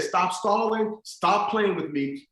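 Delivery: lightly acted scolding mother; stern mother. Mother confronts stalling son.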